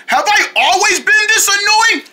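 high-pitched cartoon question; character voice. Promo character asks.

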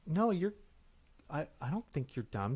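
flustered denial with false starts; stuttering. Acted. Accused scene partner denying it, stuttering. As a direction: stumble over the first words, backing off. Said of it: "Now you're stuttering".

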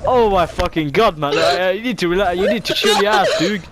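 loud, high, fed-up swearing; exasperated yelling. Real, not acted. Gamer yelling at a loud kid, exasperated.

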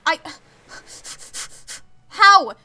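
loud, incredulous burst; sudden loud cry of amazement; overwhelmed disbelief. Real, not acted. Overwhelmed by a big donation.

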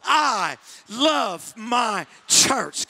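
drawn out with spirit; leading the crowd in a slow bold chant; slow spirited declaration. Shown as a demonstration. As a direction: proclaim it slowly with attitude. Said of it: "you should say it one more time".

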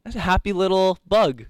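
a hint of a gentle painting-show host; lightly put-on painter's voice; Bob Ross. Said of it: "in a Bob Ross style".

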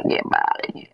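slow, giggling gloat; laughing taunt. Pretend. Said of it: "repeats the taunt laughing".

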